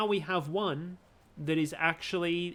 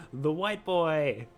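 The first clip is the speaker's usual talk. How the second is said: slow theatrical villain menace; 3 dB louder, much slower than usual. Acted. Dramatic ominous repeat.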